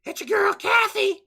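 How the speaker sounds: high, loud throat-straining character voice; Kathy. Acted. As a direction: squeal a big showy self-introduction. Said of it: "should I give her the Kathy voice".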